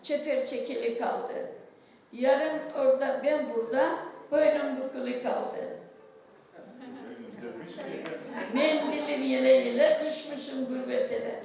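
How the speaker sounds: lilting folk verse delivery; poem recitation. Acted. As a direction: recite the mani with feeling. (mani okur gibi)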